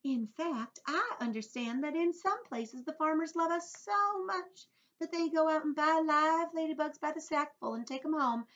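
proud ladybug. A narrator's reading. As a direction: speak as a genteel ladybug boasting of her usefulness. Ladybug explains to James.

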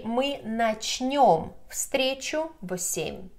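slow, clear model phrase; teacher modelling slowly; slow model sentence. Shown as a demonstration. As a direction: spell out "Мы начнём встречу в семь" slowly for learners. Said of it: "You will say".

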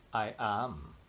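breathy whisper of a boast; hushed secret claim. Acted. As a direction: whisper it to yourself.

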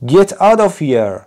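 high, slow read-aloud scream; old man screaming. A narrator's reading. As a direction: yell it again as the old man. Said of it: "screamed the old man".

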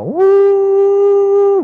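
long, high, loud hoot; sustained conch-shell imitation; imitated conch blast. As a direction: hold a loud high "woo" like a horn. Imitates conch call to gather.

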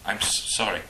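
a light stammer on sorry. Acted. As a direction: trip over the first word. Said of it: "she stammered".

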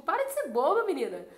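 a mock scolding friend, amused; teasing, laughing. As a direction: laugh her out of her sadness. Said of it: "como se ele estivesse rindo".

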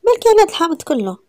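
high, loud startled question; sharp suspicious surprise; surprised demand. Acted. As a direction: blurt it out, caught off guard. Suspicious woman questions lemon eating.

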